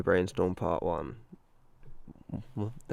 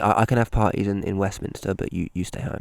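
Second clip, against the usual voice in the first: mock politician; 11 dB louder than usual. Parodying politician in Westminster.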